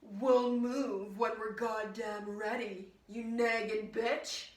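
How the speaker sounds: slow, lightly voiced surly stranger; a hint of a hostile shopper, drawn out; imagined rude shopper. Shopper refusing to move in her imagination, slow and lightly surly. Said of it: "They'd probably say something like".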